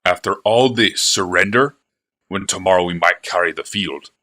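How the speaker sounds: loud, indignant protest; too loud. Acted. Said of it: "his voice too loud".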